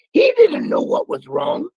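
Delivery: slow, high, loud plea; emotional shout. Real, not acted. Telling the story of Ray's son, slow and high with feeling. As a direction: push it out, heartfelt and slow.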